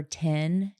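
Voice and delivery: "ten" said like "tin"; Southern "ten". Shown as a demonstration. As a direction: give "ten" a short i vowel. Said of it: "Like, another sound like that is".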